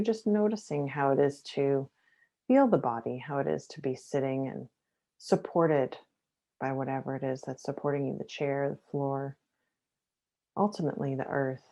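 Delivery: low, softened guiding voice, with pauses between phrases; guided meditation. Acted. Teacher guiding listeners to feel the chair beneath them, guided meditation. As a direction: ease them gently into noticing the body. Leads a body-awareness meditation.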